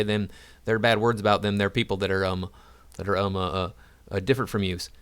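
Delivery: a hint of a mocking Southern yokel accent. Mocking woke critics who ban people, in a light Southern accent. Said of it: "an accent that I affect when I am dealing with somebody".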